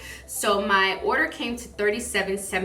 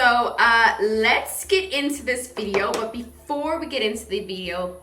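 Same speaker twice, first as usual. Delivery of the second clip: usual speaking voice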